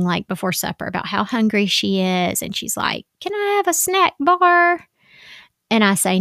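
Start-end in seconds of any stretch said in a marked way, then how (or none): 3.2-4.9 put-on high, pleading child's voice; little girl voice. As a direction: ask for it like a small girl begging. Mother voices whining daughter.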